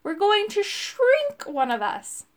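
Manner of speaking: high, slow, exasperated bellow. A narrator's reading. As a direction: bellow it slowly, stretching "shrink". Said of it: "bellowed Urk".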